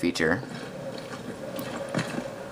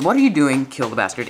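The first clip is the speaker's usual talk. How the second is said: imitated American accent. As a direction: quote the line briskly with a light American accent. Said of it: "in an American accent".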